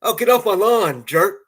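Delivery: loud, high jeering yell; the rude way, shouted; hammed-up grumpy yell; mock rude yell. Shown as a demonstration.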